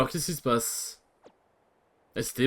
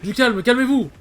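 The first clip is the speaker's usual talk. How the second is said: shouting at crew; 8 semitones higher, 3 dB louder than usual. Acted. Captain shouting at panicked crew.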